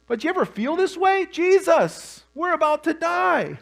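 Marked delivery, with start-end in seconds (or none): 1.3-3.6 mock panic. Panicked plea in sermon.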